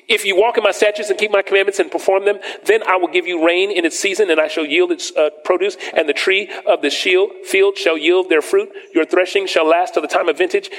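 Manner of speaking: preacher reading scripture aloud to the church. Acted. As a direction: proclaim the verses from the pulpit. Reads scripture in raised voice.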